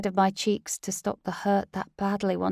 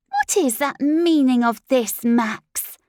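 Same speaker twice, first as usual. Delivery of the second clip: louder and higher, seething; raging demand; 5 semitones higher, 8 dB louder, slower than usual. Acted. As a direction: demand an answer in a rage. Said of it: "the raging Cheryl".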